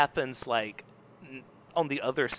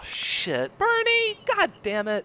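disappointed groan; slower than usual. Retold or imitated. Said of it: "I was like".

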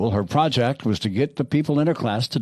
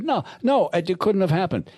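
put-on panicked girl; 7 semitones higher than usual. Accused girl protests.

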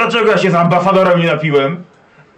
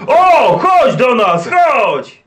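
put-on boisterous drunk dwarf; 5 semitones higher than usual. Dwarf hails friend to drink.

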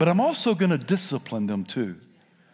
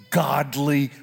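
whisper; 3 semitones lower, much slower than usual. Retold or imitated. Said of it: "I whisper in his ear".

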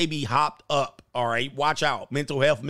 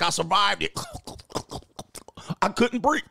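higher-pitched mocking imitation broken by laughter; laughing mock quote; 6 semitones higher than usual. Streamer mocking a celebrity's covid announcement, laughing and higher-pitched. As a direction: crack up while mimicking his claim.

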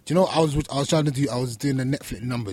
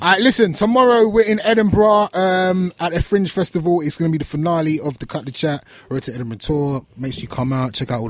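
high, loud opening easing down; rallying sign-off announcement; event announcement; 6 semitones higher, 6 dB louder than usual. Real, not acted. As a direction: project the show plug to the audience. Announces the live show.

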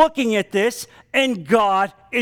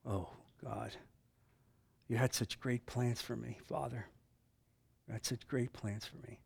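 much softer, lower, prayerful apology; hushed confession; 5 semitones lower, 10 dB quieter than usual. Real, not acted. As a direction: pray it to God almost under your breath. Preacher prays his own confession.

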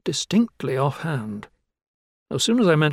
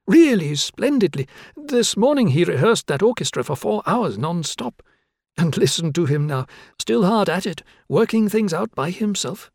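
brightening; 5 semitones higher than usual. Acted. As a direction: gush about the maestro, beaming.

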